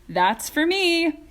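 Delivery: high, loud and slow, greedy delight; eager shout. A narrator's reading. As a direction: claim it loudly like a spoiled kid. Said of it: "shouted Mike T V".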